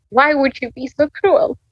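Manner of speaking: high, tearful plea; trying not to cry. Real, not acted. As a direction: hold back tears while questioning God. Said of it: "I'm trying not to cry".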